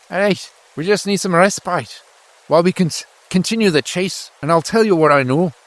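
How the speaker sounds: high-pitched, persuasive soldier voice; pleading deserter. Acted. Deserter asking farmer for food and respite, high and persuasive.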